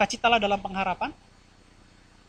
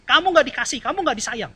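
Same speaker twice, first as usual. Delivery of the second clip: higher, accusing whisper of the tempter; a lightly voiced devil sneering; devil's accusing voice; 5 semitones higher than usual. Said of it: "dia bilang gini".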